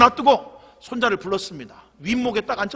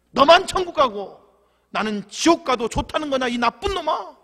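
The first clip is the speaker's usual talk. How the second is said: scolding grandfather; 5 semitones higher than usual. Acted.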